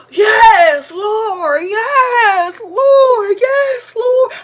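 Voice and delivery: put-on child copying grandma crying out praise in church; crying praise shout. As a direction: wail it out as if overtaken by the Spirit. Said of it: "So I see her crying".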